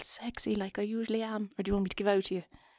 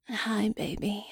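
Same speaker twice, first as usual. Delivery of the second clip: sexy phone voice; much slower than usual. Pretend. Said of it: "they generally say things like".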